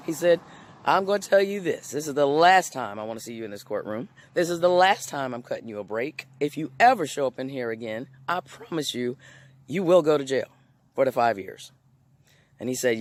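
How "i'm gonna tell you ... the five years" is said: stern judge warning. Retold or imitated. Judge warning repeat offender in court.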